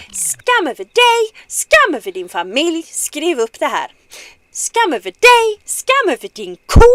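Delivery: the curse, hammered for emphasis; emphatic Swedish curse. Pretend. Streamer repeats the curse on the universe for emphasis. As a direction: really hit each shame line. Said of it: "do that again just for emphasis".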